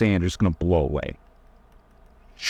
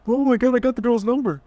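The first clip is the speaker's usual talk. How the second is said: mock squeal, much higher; giddy squeal; 14 semitones higher than usual. Coach mocking Bond squealing over a girl's number. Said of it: "You think he's like".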